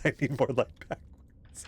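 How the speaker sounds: a hint of the spooky reversed voice; imitating creepy voice. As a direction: quote the creepy line back. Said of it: "That was".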